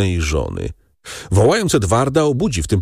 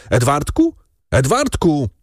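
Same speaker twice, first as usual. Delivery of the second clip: higher, restrained frantic call; terrified cry; 6 semitones higher than usual. A narrator's reading. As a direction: call out in dread for your child. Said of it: "Krzyczał tak przeraźliwie".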